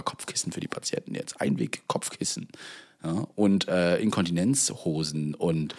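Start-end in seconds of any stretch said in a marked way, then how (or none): 0.0-2.5 whispering. Real, not acted. Conspiratorial aside about pillows.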